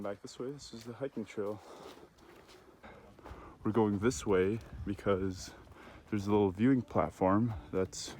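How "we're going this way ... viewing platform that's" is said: winded and out of breath. Real, not acted. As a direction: speak between gasps for air. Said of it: "I'm really out of breath".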